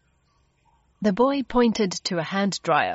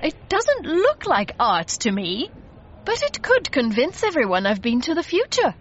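higher, animated exclamation; excited cry; 6 semitones higher than usual. A narrator's reading. Mister Logan grabs a painting as proof, excited cry. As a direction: lift the pitch with eager conviction. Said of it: "Mister Logan cried".

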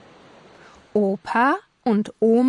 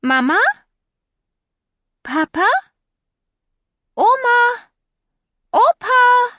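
rising calls, each one higher and louder; calling out; 13 semitones higher, 6 dB louder than usual. A narrator's reading. Wilma searching her empty home, calling louder and higher. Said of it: "called Wilma".

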